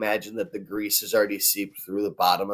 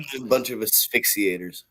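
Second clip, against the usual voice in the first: whistling nose; 2 semitones higher than usual. Real, not acted. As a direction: air whistling through a blocked nose. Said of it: "your nose is on one tonight".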